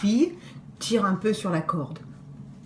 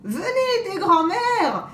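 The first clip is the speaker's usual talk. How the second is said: wolf calling; 9 semitones higher, slower than usual. Acted. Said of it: "crie-t-il".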